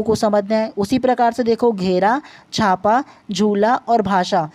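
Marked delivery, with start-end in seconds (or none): 3.3-4.5 slow sounding out. Shown as a demonstration. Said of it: "झूला उच्चारण करके देखो ना जी".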